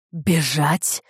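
startled cry of disbelief; a touch of shouting; Paris cries out hearing of her escape; mild shout. A narrator's reading. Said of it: "закричал он в голос".

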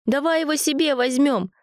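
high eager suggestion; eager pleading. A narrator's reading. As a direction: plead to keep it. Boy begging to keep kitten.

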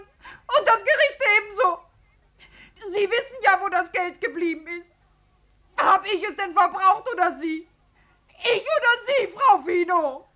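half-laughing, half-crying accusation; a choked, bitter laugh at Frau Fino; bitter laughing tears. Acted. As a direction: laugh through tears as you throw the blame back. Vera bitterly turns blame back.

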